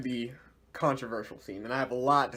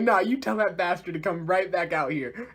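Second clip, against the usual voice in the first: higher-pitched angry demand; mock pissed off; 4 semitones higher, 3 dB louder than usual. Group ordering Oscar to bring Oz back, mock angry. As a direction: act out an irritated group demand. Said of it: "everybody's pissed".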